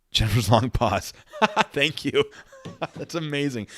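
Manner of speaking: words through laughter; laughing. Real, not acted. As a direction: laugh while saying it. Laughing at the pause.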